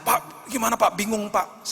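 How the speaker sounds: high, anxious pleading to the pastor; panicked pleading. Retold or imitated. Church member begging the pastor for help, high and frantic.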